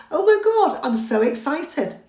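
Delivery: a high, bright burst on oh my God, then settling; excited. Shown as a demonstration. Instructor demos excited self-talk for nervous students, high then settling. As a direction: show how to sound excited about the test. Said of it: "So just say to yourself".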